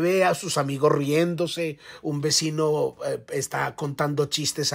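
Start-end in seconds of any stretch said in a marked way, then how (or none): none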